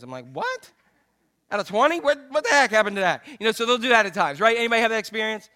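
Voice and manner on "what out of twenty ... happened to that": high-pitched disbelief at the change; incredulous, squeaking "what?"; shocked dad. Retold or imitated. Dad outraged at kids' change.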